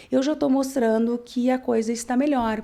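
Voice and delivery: ordinary delivery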